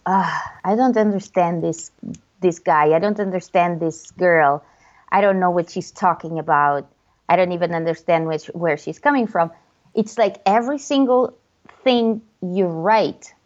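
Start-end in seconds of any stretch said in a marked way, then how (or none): 0.1-9.5 low, grumbling baffled reader; confused and annoyed. Pretend. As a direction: grumble your confusion at the post. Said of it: "from the lens of hate".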